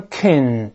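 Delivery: "kin" as a schwa then a front n; unstressed "con", reduced to "kən"; weak-form con. Shown as a demonstration. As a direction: say "kin" with lips relaxed, a neutral "uh" vowel into n. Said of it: "是先发倒义字".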